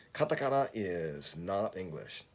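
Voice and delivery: slow, measured model sentence for learners; modelo para repetir. Shown as a demonstration. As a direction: say "Katakana is not English" slowly, word by word, falling at the end. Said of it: "Please listen and repeat after me".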